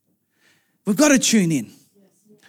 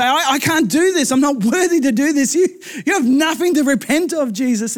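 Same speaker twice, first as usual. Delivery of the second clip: higher-pitched acted objection; flustered protest; 4 semitones higher than usual. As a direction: protest as if arguing your way out. Acts John's protest to Jesus.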